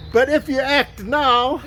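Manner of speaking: slow, hammed-up infomercial pitch; playful mock TV ad voice; TV salesman. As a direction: drag out the big sales hook. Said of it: "one of those T V salesmen".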